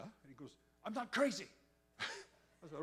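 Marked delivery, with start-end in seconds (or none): 0.8-1.5 imitated insistence. Friend insists on his sanity.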